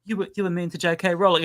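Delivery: mock British accent for a follower; bad British accent. Critic scolding him over J K Rowling, bad British accent. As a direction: put on a clumsy British accent. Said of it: "I read it in a British accent, a bad British accent".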